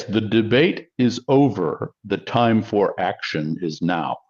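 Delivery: a light politician's declaration, slowly. Shown as a demonstration. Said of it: "I said you just changed your voice".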